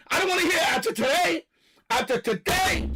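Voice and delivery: heated shout of disgust; ranting shout. Real, not acted. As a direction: yell it at the whole country.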